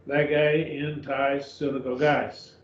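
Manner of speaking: "Lege in tais synagogues" read slowly, word by word, each syllable spelled out; slow careful reading. Shown as a demonstration. Teacher rereads the Greek phrase for the class, slow and careful. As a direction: lay out the Greek slowly for the students to follow.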